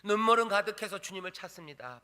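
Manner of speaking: usual speaking voice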